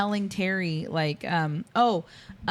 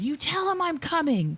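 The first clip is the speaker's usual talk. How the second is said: imitated film threat; 9 semitones higher than usual. Quoting the film's threatening line.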